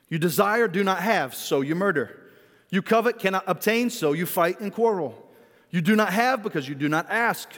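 measured, solemn Bible reading; scripture reading. Acted. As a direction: read the passage as holy text. Reads scripture passage aloud.

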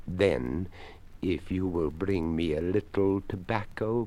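a courteous creaky skeleton, unhurried. Acted. Skeleton speaks.

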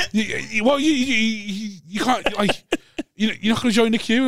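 can barely get the words out for laughing; laughing through a quote. Retold or imitated.

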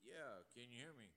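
muffled, distant phone voice; like talking into a pillow. Real, not acted. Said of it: "you sound like you're fucking talking into a pillow".

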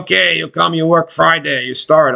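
put-on old German boss's accent, lightly done. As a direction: put on a simple, clipped-English German accent. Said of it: "this old guy with a fucking German accent".

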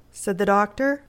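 ordinary delivery, nothing marked

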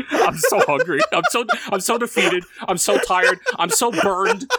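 mock-pitiful whining that dissolves into laughter; laughing plea. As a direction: whimper it, then crack up on "burned". Begging boss, breaking into laughter.

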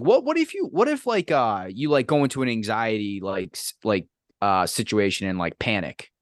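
student who rambles about panic, imitated; mock nervous student. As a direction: stammer it out like the flustered student. Mimicking a nervous student question.

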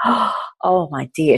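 lightly voiced older woman, moved. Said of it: "she just went".

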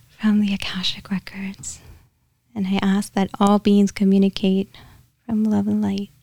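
hushed, level invocation; softly recited prayer. Real, not acted. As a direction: let the prayer sink toward a whisper. Continues the prayer, softer.

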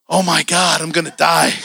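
mock dread. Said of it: "And I was like".

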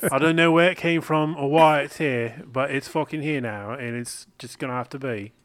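put-on, vaguely British accent; a little British. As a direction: lean into a loose British accent. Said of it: "It's a little British".

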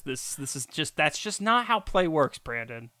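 mock annoyance through clenched teeth; through gritted teeth. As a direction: jaw clenched, pretend to be cross. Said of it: "doing this through my teeth".

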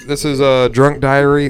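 slow, grand show title read; announcer voice. Acted.

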